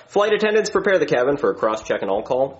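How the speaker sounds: a hint of the captain's PA voice; lightly put-on cabin announcement; pilot intercom voice. Captain calling to the flight attendants over the intercom, lightly voiced. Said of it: "We have to talk like that".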